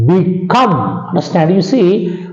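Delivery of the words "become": become as "bi-COME", the second syllable stressed. Shown as a demonstration. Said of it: "we put a stress on the second syllable".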